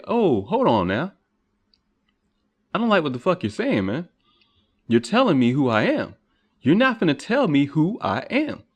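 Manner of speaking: rebellious pushback. Retold or imitated. Speaker's rebellious self answering those who define him, building to an angry shout. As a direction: push back harder on every line until you explode. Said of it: "I can't do nothing but say".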